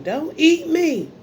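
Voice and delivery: high, slow, pleading food voice; squeaky plea from the ginger; talking ginger voice. Pretend. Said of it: "That ginger was like".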